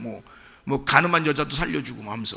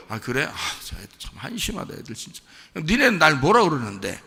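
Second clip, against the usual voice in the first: scoffing Jesus. Acted. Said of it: "비웃으면서 지금 제자들한테 물어본 거예요".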